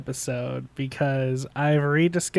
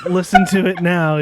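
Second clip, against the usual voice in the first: excited; faster than usual. Retold or imitated. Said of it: "and like".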